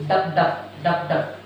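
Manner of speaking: "dup dup, dup dup" in short paired beats; heartbeat sound. Shown as a demonstration. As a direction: tap out "dup dup, dup dup" like a pulse. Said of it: "the heartbeats and pulse sounds is".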